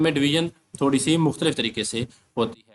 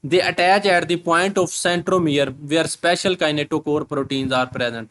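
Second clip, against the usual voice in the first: reads the English line very slowly, word by word; slow dictation reading; slow textbook reading; much slower than usual. Shown as a demonstration.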